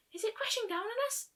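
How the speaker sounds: high, frightened squeak. A narrator's reading. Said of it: "Fluttershy squeaked".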